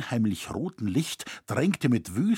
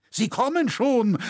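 high, loud warning call; urgent cry; 12 semitones higher, 4 dB louder than usual. A narrator's reading. Loy warns the others that the mob is coming, loud urgent cry. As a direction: shout it out as the crowd closes in. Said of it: "rief Loy unterbrechend".

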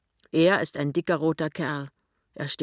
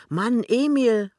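higher, louder, drawn-out call; slow alarmed call, pitched up; 7 semitones higher, 6 dB louder, slower than usual. A narrator's reading. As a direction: call sharply to your husband for help. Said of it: "ruft die Frau".

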